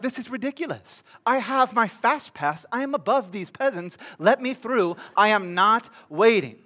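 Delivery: a hint of an indignant, entitled guest; lightly voiced snooty complaint about waiting; entitled fast-pass holder. Fast-pass holder refusing to wait in line, mock indignant. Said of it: "you're like".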